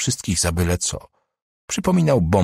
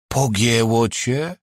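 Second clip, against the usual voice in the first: slow, indignant outburst said higher; flared up; 5 semitones higher, much slower than usual. Acted. Boss snaps at Rudi over the phone, flared up. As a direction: bristle at him in disbelief. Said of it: "uniósł się Wętlewski".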